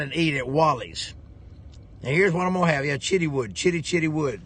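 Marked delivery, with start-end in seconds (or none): 3.0-4.4 Chitty Wood with a clear ch sound, Chitty Wood; Chitwood said right. Shown as a demonstration. Showing viewers how to say Chitty Wood right. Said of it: "don't say shit wood".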